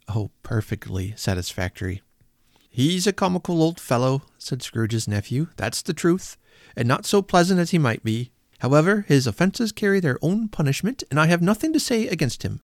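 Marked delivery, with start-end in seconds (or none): 2.7-12.6 put-on high, good-humoured young man; amused nephew. Nephew speaking kindly of his uncle, high amused voice. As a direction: chuckle it out fondly.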